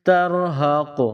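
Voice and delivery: ترہق ending on a bounced ق; qalqalah stop. Shown as a demonstration. Teacher repeating the stop for pupils. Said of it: "قلقلہ کریں گے".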